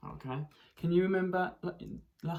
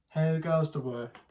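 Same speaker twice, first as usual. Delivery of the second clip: farmer voice; 5 dB louder than usual. Acted. Repeating farmer and duck lines.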